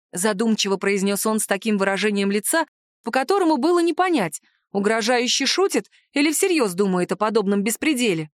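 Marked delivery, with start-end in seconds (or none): none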